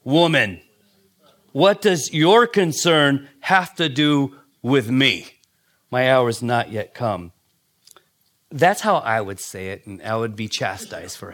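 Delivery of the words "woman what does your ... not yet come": slow, curt and cold; slow, stiff reading of Jesus's reply. Shown as a demonstration. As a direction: say it like a cold rebuke. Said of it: "Now, it sounds cold".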